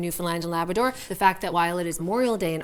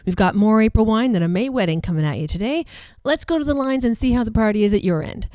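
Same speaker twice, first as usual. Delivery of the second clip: upbeat on-air host welcome; bright DJ patter to open the show; radio host voice. Acted.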